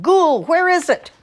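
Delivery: high, drawn-out holler. A narrator's reading. Old man demands the pumpkin from a ghoul, hollering. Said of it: "hollered out".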